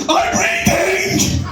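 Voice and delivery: high, cracking shout, drawn out; panicked squawk of a breaking voice; teenage voice breaking. Acted. Teenage Barry yelling to dad from the caravan, voice breaking. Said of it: "your voice breaking".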